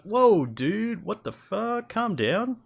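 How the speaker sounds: high-pitched, taken-aback protest; mock alarmed reaction. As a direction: play being startled by someone yelling at you. Acting shocked reply to yelled demand.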